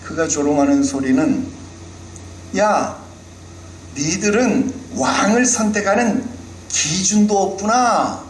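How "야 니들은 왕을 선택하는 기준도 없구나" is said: high, slow sneer; Goliath sneering at Israel, mocking. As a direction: belittle them for having no standard. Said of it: "그렇게 조롱하는 겁니다".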